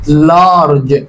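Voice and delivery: large with a long open a; saying large. Shown as a demonstration. Teacher modeling لارج with a long open a. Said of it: "اللفظ بتاع الايه".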